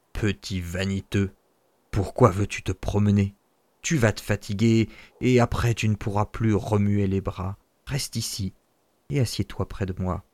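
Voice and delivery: scolding father. Acted. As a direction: chide him, then soften.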